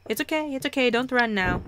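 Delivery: urgent coaxing. Acted. Calling after the fleeing creature.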